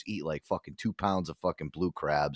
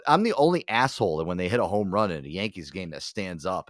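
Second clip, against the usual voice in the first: ordinary delivery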